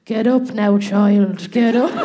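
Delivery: put-on mild Irish old man urging her up. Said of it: "he couldn't have sounded more Irish".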